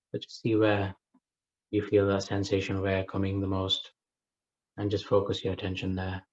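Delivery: unhurried meditation guidance with long pauses; guided meditation. Acted. Teacher settling a group into breath awareness, guided meditation. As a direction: guide listeners into breath awareness, leaving space between phrases.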